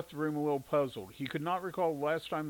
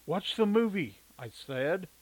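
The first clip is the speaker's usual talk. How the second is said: firm command; 5 semitones higher, 5 dB louder, slower than usual. A narrator's reading. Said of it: "cut him off abruptly".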